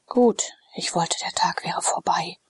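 drowsy lord, barely awake, breathing the words; sleepy weary whisper. Acted. Sallust, just woken, murmuring to his freedman, drowsy and weary. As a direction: murmur it half asleep, unwilling to stir.

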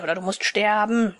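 sterben said as a plain, falling threat; robber's threat. Acted. Big robber threatens death, sterben falling and flat. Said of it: "drohte nun der größere".

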